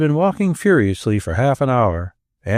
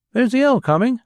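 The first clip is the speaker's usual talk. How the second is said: lightly voiced alarm cry; 11 semitones higher than usual. A narrator's reading. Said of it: "he cried".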